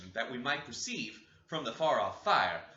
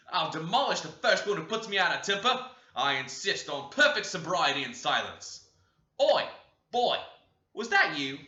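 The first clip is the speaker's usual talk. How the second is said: loud, high angry threat; tyrant's threat; 4 semitones higher, 8 dB louder than usual. Acted. Tyrant brother threatening the noisy children, loud and angry. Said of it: "says the tyrant".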